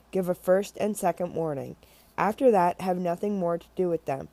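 bible verse read aloud; scripture reading. Acted. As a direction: read the passage with weight.

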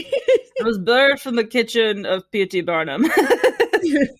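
giggling through a grand claim; mock-dramatic boast with laughter; laughing mock grandeur. Joking about Paul's circus origin, laughing mock grand.

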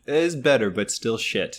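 light imitation of a Montenegrin accent; a hint of mock Montenegrin accent. Quoting the art teacher's verdict, lightly Montenegrin-accented. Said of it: "the offensive Montenegrin accent".

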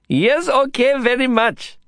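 put-on high, bright child's voice; eager small boy. A narrator's reading. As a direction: chirp it like an eager little boy. Boy agrees enthusiastically.

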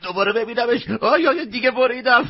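high, breathless from laughing; gasping after too much laughter; out of breath laughing. Acted. Customer can't stop laughing at the mask. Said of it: "به زور نفسش درآمد".

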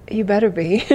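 mock-threatening whisper; teasing whisper. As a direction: whisper it as a playful warning. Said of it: "I'm just teasing".

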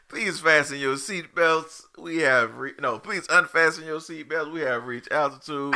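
slow, loud cabin announcement; flight attendant. Pretend. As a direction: announce it like airline crew. Mock airline announcement in banter.

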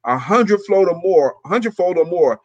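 measured, declarative recitation; deliberate affirmation read aloud. Pretend. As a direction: read it out phrase by phrase. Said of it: "Let me get my reading voice".

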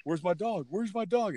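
high-pitched mock taunt; trash-talking bully. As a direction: taunt like a kid bully, imitated. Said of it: "talking trash on the way".

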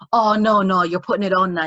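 loud opening protest, imitating doubters; mock accusation. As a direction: cut in loudly like a disbelieving accuser. Imitating people accusing her of faking.

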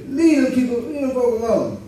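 imitated mother in a high voice; mom's warning. Preacher quoting mom about the Saturday morning folk, mom's warning. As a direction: pitch it up like a mom telling off the kids. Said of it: "My mom would say".

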